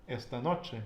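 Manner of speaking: "Esta noche" stressed ES-ta NO-che; "Esta noche", both final vowels unstressed; penultimate stress. Shown as a demonstration. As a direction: lean on the first syllable of "Esta" and of "noche". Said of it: "we put the emphasis on the penultimate".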